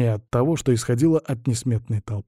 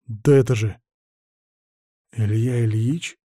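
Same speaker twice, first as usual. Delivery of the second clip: astonished murmur. A narrator's reading. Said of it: "с изумлением пробормотал".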